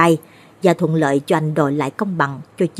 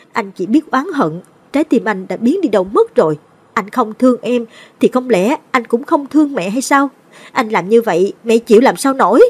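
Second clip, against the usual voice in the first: anguished reproach; 5 semitones higher, 4 dB louder than usual. Acted. Kneeling wife reproaches husband.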